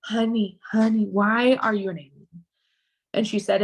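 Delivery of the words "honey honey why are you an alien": calmed. Retold or imitated. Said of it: "I calmed".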